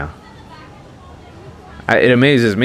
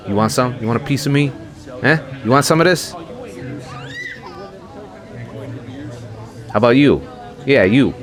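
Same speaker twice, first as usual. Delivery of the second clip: put-on belligerent drunk; 7 semitones higher, faster than usual. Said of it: "He's like".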